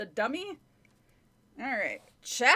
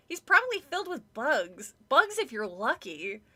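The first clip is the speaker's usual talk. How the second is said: disgusted; 4 dB louder than usual. Acted. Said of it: "making a disgusted face".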